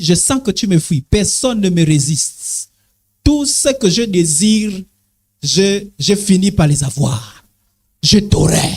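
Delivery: slow, low seductive temptress; lightly voiced slow seductress; viper woman voice. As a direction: purr it out like a tempting serpent. Viper woman voice continues, threats.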